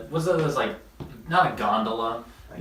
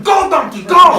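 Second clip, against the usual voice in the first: high, loud herding shout; mock scream, leaping up in pitch; screaming donkey driver; 13 semitones higher, 10 dB louder than usual. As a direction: imitate a driver yelling at his donkeys. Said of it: "Greek guys just screaming at herds of donkeys".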